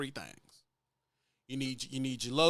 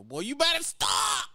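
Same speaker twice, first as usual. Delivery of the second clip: high, slow, drawn-out playful scold; flattered woman; 10 semitones higher, 5 dB louder than usual. Retold or imitated. Lady laughing off his flirting in a high voice. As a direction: stretch it out, coyly flattered. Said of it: "flattered by the lady".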